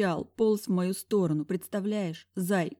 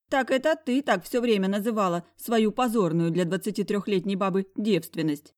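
higher, louder gloating friend; 3 semitones higher, 4 dB louder than usual. Acted. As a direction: gloat with relish. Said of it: "кровожадно хмыкнула Заюша".

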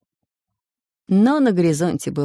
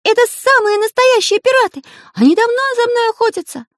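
alarmed Karandash; 8 dB louder than usual. Acted. Karandash continues his alarmed warning.

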